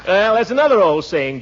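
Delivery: normal talking voice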